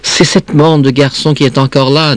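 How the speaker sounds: a hint of a child's alarm; frightened child. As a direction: complain to mother like a scared child. Frightened child explains to mother.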